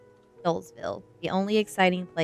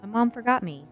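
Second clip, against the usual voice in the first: mild higher-pitched holler; understated wail of complaint; 3 semitones higher, 12 dB louder than usual. A narrator's reading. Crying girl to a classmate, mild holler. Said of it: "she hollered".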